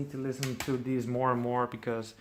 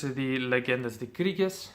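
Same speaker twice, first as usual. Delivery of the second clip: slow, careful Spanish-accented reading; slower than usual. Shown as a demonstration. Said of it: "I just said it in a Spanish accent".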